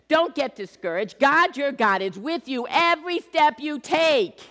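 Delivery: God's voice charging Joshua, stirring; God commanding. Retold or imitated. Preacher voicing God's command.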